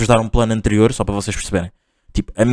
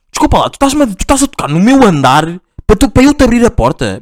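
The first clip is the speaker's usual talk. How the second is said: mock confrontation; 7 semitones higher than usual. Confronting the neighbour.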